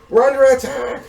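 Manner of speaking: high, strained distant yell; mercenary raising alarm. Acted. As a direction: yell the warning across camp. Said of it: "one of the mercenaries near the entrance".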